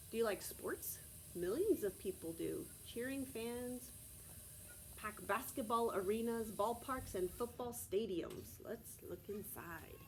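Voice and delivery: steady read-aloud from the book; reading to children. Acted. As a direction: read the page aloud to the class. Reads picture book to class.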